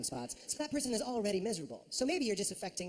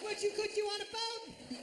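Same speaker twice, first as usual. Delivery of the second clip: high, slow crowing voice; gleeful high mimicry; imitated exuberant holler; 14 semitones higher, slower than usual. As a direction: crow it out, stretching the last word. Same put-on holler, new words.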